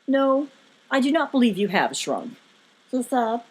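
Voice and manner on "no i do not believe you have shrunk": Lokar. A narrator's reading. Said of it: "Lokar, continued to speak".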